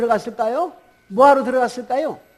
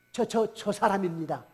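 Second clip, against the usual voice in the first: timid stammer; 2 semitones lower, 7 dB quieter than usual. Acted. Healed man points out Peter.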